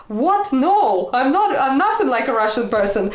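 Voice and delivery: mock-offended, voice jumping up high; indignant denial. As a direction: act out a friend's affronted disbelief. Friend's indignant denial being retold.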